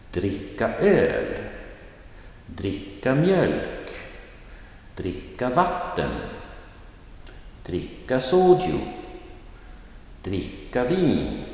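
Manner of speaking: dricka quick, each noun stressed; phrase stress on the noun. Shown as a demonstration. Teacher drilling the pattern with swapped nouns. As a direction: stress öl, mjölk, vatten, soju, vin. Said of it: "the first verb is quick and unemphasized".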